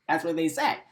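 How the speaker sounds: laughs, then repeats it with a rising end; real amused disbelief; laughing in disbelief. Real, not acted.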